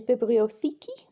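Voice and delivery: bibliotheki said the Greek way; Greek word. Shown as a demonstration. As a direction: model bibliotheki. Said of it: "which is actually, a library".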